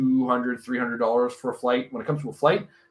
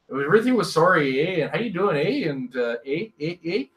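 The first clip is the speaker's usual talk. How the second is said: lightly hammed Northern Ontario accent; mock Northern Ontario, tossing in eh's. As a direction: slip into Northern Ontario lilt with bouncy eh's. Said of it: "my Northern Ontario came out".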